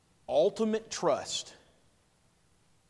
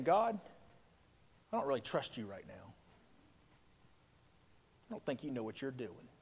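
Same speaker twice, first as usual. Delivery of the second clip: inner voice; 4 semitones lower, 10 dB quieter than usual. Retold or imitated. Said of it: "my heart's really saying".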